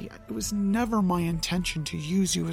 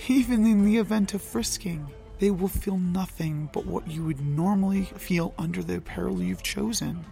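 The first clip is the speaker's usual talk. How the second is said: lower, softened apology. Acted. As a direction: speak low and gentle. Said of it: "Loki's voice was low".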